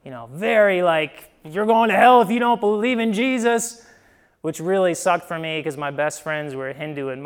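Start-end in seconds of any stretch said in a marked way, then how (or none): 1.5-3.9 lightly mocked hellfire preacher, raised pitch; hint of a charismatic church warning; hellfire evangelical. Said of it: "very evangelical, very charismatic church".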